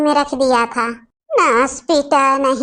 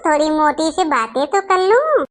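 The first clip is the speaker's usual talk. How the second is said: put-on drunk giggling. Drunk bhabhi teasing her mother-in-law, giggling. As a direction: giggle it out like you're tipsy. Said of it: "देख रहे हो कैसे हंस रही है".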